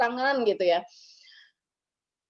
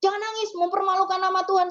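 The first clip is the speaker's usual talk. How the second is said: scolding mourners; 3 semitones higher than usual. Retold or imitated. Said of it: "kita bilang".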